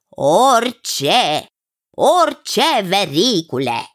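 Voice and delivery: insistent, each word set apart; lightly voiced emphatic cousin. Cousin confirming it to the king, lightly emphatic. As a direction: lightly act a cousin assuring, swooping on the repeat.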